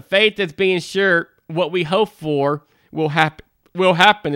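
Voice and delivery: reading through the hiccups; speaking with hiccups breaking in. Real, not acted. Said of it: "I got the hiccups".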